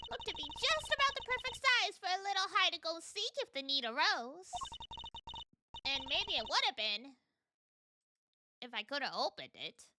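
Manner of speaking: lightly put-on Southern accent, folksy; silly southern accent. Landlady warning the detectives, in a silly Southern accent. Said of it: "the silly southern accent".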